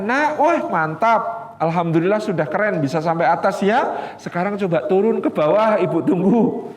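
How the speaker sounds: encouraging mother. Retold or imitated.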